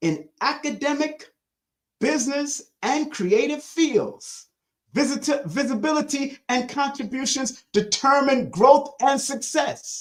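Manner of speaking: slow, measured, careful, deliberate reading. Speaker rereading a passage aloud again, reading it slower. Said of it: "Let me read it slower".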